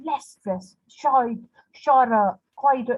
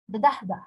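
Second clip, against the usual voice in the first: "the dahda" with first beat strong; one strong beat, two light in "the dahda"; stress on first syllable. Shown as a demonstration. Teacher sounding out a dactylic foot, first syllable stressed. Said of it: "stressed followed by two unstressed".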